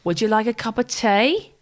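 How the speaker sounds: put-on light Australian accent with rising end; mock Australian. Co-host imitating Australian contestants, light Australian accent. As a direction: imitate an Australian question lilt. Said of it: "it's always a question".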